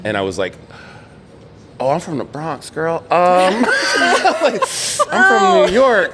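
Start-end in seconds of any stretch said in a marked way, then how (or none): 1.8-6.1 high laughing answer, slowing down; amused, laughing it off; laughing reply. Retold or imitated. Laughing reply to girl's question.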